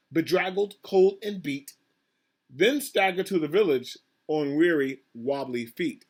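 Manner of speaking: put-on measured, projected reading to children; storybook narration. A narrator's reading. Reader telling children of the animals' night swim, storybook narration. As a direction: read the rhyme out with dramatic phrasing. Reads picture book aloud.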